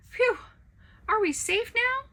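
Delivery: put-on high, loud relieved child voice. Child Toast asking Pancake if they escaped. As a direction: sigh it out in relief. Children catch their breath.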